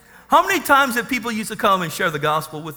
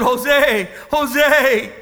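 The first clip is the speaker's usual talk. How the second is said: calling out; 5 semitones higher, 3 dB louder than usual. Retold or imitated. Calling to old friend across yard.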